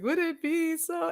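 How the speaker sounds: high, slow, hammed-up Tevye sing-song; mock Tevye. Joking about the actor's unchanged accent, slow mock Tevye voice. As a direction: lightly sing it like Fiddler on the Roof. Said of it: "I'm like".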